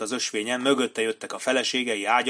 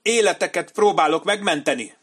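very high, loud, whimpering plea; whimpering commander; 9 semitones higher, 7 dB louder than usual. A narrator's reading. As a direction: beg shrilly for his life. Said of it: "panaszosan nyöszörgött".

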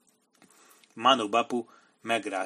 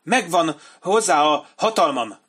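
high, whining petulant voice; whining commander; 7 semitones higher, 8 dB louder than usual. A narrator's reading. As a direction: whine it like a cornered coward. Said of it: "vinnyogta Benny Singh".

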